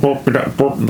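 short choppy burps like a broken walkie-talkie; mock radio garble. Imitating the garbled ghost voice through a walkie-talkie, choppy burps. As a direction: chop it up like static on a bad signal. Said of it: "So it's more like".

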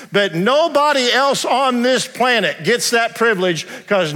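slow, deliberate testimony from the pulpit; measured preacher cadence; slow preaching. Acted. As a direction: lay each line down slowly like a confession of faith.

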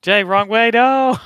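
loud, high urgent yell; shouting. Real, not acted. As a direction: yell a warning at him. Yelling at a player in game.

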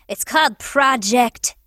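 drawn-out, secretive whisper; hushed, mock-secret reveal; mysterious whisper. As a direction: whisper it slowly like a secret code name. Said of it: "Ooh, mysterious".

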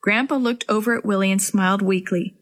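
ordinary delivery

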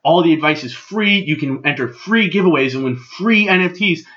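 each "free" quoted in capital letters; capitalized FREE. Retold or imitated. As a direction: punch every "free". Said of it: "every time I say free, understand he capitalized".

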